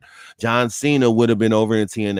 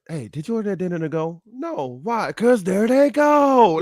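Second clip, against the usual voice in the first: quoting a movie scene; 6 semitones higher than usual. Retold or imitated. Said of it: "what Cheech Marin said".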